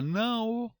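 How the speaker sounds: NÃO with a full separate O, nã-ô; wrong spelling pronunciation. Shown as a demonstration. Teacher asking if anyone says NÃO as nã-ô. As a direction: end não on a long clear ô. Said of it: "Alguém fala não?".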